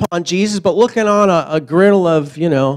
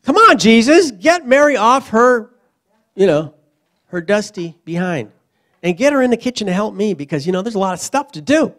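raised, nagging plea to Jesus; complaining Martha; 2 semitones higher than usual. Retold or imitated. Martha begging Jesus to send Mary, mild nagging. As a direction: whine like a put-upon sister. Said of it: "Martha finally goes".

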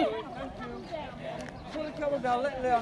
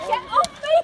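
raised, higher startled yell; yelling get off; 11 semitones higher, 4 dB louder, much faster than usual. Real, not acted. Man on a camel yelling at it, startled shout. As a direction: shout it as the animal grabs you.

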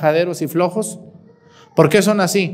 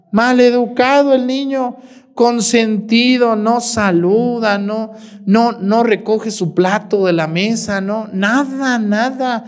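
exasperated listing; 4 semitones higher, slower than usual. Retold or imitated. Exasperated listing of child's faults.

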